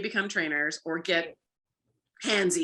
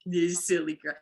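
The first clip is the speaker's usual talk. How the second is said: calming down; 2 semitones lower, 4 dB quieter, slower than usual. Shown as a demonstration. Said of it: "then we slow it down".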